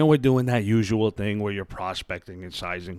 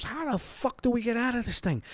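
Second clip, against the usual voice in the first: inner panic; 12 semitones higher, 5 dB quieter than usual. Retold or imitated. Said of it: "thinking to ourselves".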